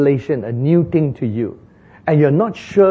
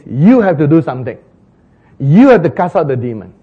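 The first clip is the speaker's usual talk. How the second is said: firm command; 7 dB louder than usual. Retold or imitated. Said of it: "He says".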